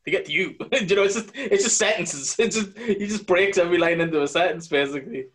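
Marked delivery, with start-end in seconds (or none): 0.1-0.6 broken-up Walken rhythm, lightly voiced; Christopher Walken. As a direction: chop every line into its own sentence like Walken. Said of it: "I can't do Christopher Walken's voice".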